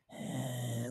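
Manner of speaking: a soft "eh", imitating Dracula looming; imitated "eh". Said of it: "he's like".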